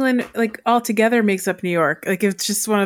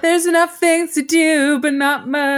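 ad slogan voice; 5 semitones higher than usual. Pretend. Mock tourism slogan.

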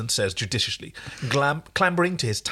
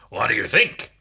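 whispered; 3 semitones lower, 4 dB louder than usual. Acted. Tentative question.

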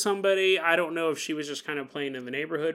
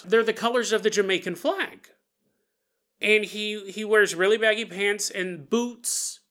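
lightly voiced little girl; 4 semitones higher, 3 dB louder than usual. Little girl telling her mom about her friend, lightly childlike. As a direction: describe him like an earnest small kid. Child describes the old man.

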